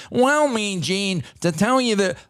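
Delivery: Randy Savage. Acted. Wrestler addressing his interviewer, slow nasal parody. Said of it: "if Savage went out there and said".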